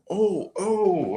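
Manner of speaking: high, falling "oh"; imitated high-pitched wince; mock wincing shock. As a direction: react like a kid watching a whooping. Reacts to watching friends get whooped.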